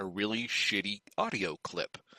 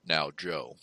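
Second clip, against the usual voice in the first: mock James Lipton; 3 semitones lower, 4 dB quieter than usual. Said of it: "I was gonna do something along those lines".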